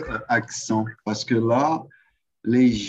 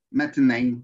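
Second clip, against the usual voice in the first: southern French attempt; 3 dB louder than usual. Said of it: "parler avec l'accent du Sud".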